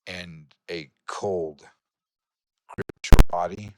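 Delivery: deliberate, suspenseful storytelling; game master narration. Acted. Game master reveals the man in the ritual, suspenseful narration. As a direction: unfold the ritual phrase by phrase, with pauses.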